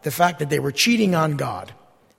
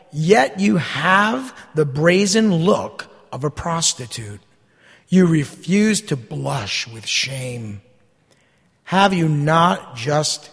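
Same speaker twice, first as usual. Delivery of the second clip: scripture reading; 3 dB louder than usual. Acted. Preacher reading Jeremiah's words to the congregation, solemn. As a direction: read God's words to the congregation with weight.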